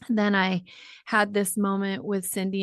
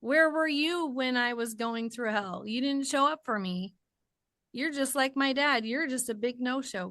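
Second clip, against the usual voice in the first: higher-pitched, aggrieved complaint; hurt accusation; 5 semitones higher than usual. Retold or imitated. Hurt daughter accusing an absent God, aggrieved. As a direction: press the grievance in a raised pitch. Old grievance voiced to God.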